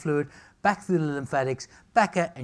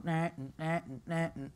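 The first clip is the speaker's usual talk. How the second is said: panic alarm; 8 dB quieter than usual. Retold or imitated. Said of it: "it sets off panic alarm".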